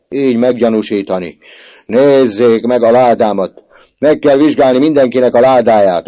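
put-on accused boy yelling his innocence at the prefect. A narrator's reading. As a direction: scream it as loud as his throat allows. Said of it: "ordította, hogy a torkán kifért".

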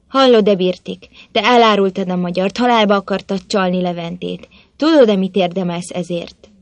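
Botond confronting the traitor, stern and threatening; stern accusation. Acted.

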